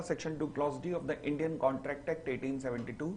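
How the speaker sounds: very slow, word by word, for students to copy; slow dictation. Shown as a demonstration. Teacher dictating the full section title to the class, very slowly. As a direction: dictate it slowly so they can write. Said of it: "खाली section two clause D मत लिख के आना".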